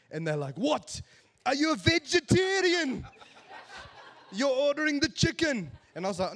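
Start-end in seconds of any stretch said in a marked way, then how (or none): 0.6-5.7 high, loud incredulous outburst; as if the order is absurd; shocked disbelief. Retold or imitated. South African waiter baffled that he ordered chicken, incredulous.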